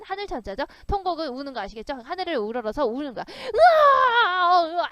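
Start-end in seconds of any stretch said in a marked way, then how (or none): 3.3-4.9 loud, high, stretched mock wail. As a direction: ham up a king howling to the sky. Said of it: "이렇게 울면서".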